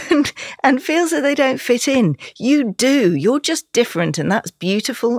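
high, emotional voice close to tears; really upset. Real, not acted. Guest speaking directly to struggling dyslexic children, emotional and tearful. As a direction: push through real tears to encourage them. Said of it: "this is where I get really upset".

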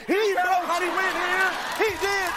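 mock TV preacher, building up; televangelist. Guard preaches to intruder like a religious channel host. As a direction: preach at the stranger like a TV evangelist. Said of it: "religious channel".

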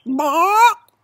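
loud, high rising chicken cluck; sharp rising "bawk"; chicken squawk. Acted. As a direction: squawk it like an insistent hen. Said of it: "The chicken nods".

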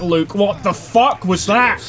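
high and slow, stretched-out outrage; disbelieving outburst. Real, not acted. Gamer to opponent Luke after a cheap hit, high drawn-out outrage.

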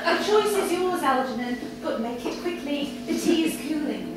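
lightly voiced lady, amused and commanding; Victoria's ultimatum. Victoria giving Algernon an ultimatum, amused and commanding. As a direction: give the ultimatum, barely holding back a laugh.

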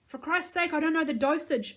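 high, loud exasperated shout. A narrator's reading. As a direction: shout in frustration. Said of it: "I shouted".

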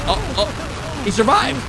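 ordinary talk, nothing marked

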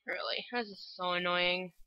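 whispered complaint; frustrated player whispering a complaint; annoyed whisper. Real, not acted. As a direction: whisper your annoyance to yourself. Annoyed after dying.

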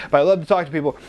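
usual speaking voice

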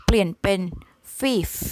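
fifth said as a short "fif" with no v; five becomes fif. Shown as a demonstration. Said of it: "เปลี่ยนชื่อนิดนึงข้างหน้าเนาะ จาก five".

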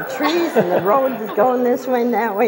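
high, laughing excitement; excited. Retold or imitated. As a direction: relive the thrill, laughing. Retelling wild fast car ride.

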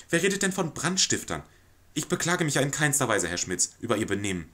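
fluster and over-apologize to the lodger; nervous society lady placating a guest; flustered lady of the house. Acted. Reader voices the anxious lady.

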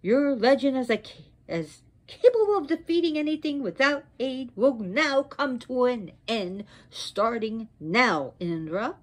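mildly wrathful, declamatory prophecy; stern curse. Acted. Goddess foretells Indra's humiliation in battle, stern curse. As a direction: pronounce the doom with emphatic swoops.

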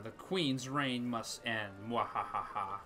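slow, menacing villain line with evil laugh; slow theatrical villain menace. Acted. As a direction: play it like a gleeful villain. Player roleplays villainous mob call.

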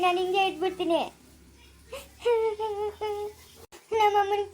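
heartbroken, tearful complaint; tearful lament. Acted. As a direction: lament the betrayal through tears. Heartbroken girl weeping over lost marriage. (ಅಳುತ್ತಾ ನೋವಿನಿಂದ)

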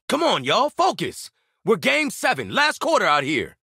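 high-pitched team pep call; rally the team like a coach late in a game; rallying shout. Acted. Telling the squad to focus for the last quarter, urgent rallying call.

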